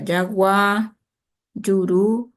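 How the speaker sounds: jagua and juru with the voice leaning on the last syllable; final-syllable stress. Shown as a demonstration. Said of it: "Se carga la voz". (carga la voz en la última vocal de "jagua" y "juru")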